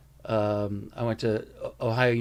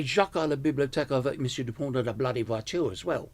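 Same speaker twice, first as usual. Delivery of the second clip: put-on French with a dropped-R West End London accent; schoolboy French in a West End London accent; faster than usual. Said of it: "I learned French with a West End accent".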